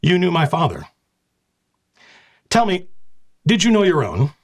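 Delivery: high, cold noblewoman's jab; cutting retort. Acted. Lady Antonia insulting the knight commander, icy. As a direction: deliver the insult with icy pride.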